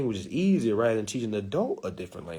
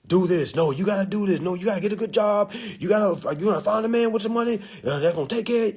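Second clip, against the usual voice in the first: higher, insistent parent laying down rules; bossy parent; 6 semitones higher than usual. Retold or imitated. Parent ordering their child around, mock bossy nagging. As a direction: nag the kid about jobs and money.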